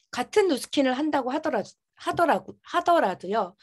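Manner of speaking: stumbling speech around a retainer; lisping through braces, tripping on words; wearing a retainer. Real, not acted. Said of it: "제가 교정기 때문에 조금 발음이 새도". (교정기 때문에 발음이 새는 말투)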